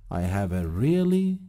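really stretched and leaned on; stress on really. Shown as a demonstration. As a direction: lean on "really" slowly. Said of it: "تأکید بکنم". (تأکید روی really)

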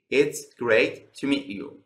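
"to" shrunk to "tə" after "great"; reduced "to". Shown as a demonstration. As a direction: say "to" as a quick weak "tə".

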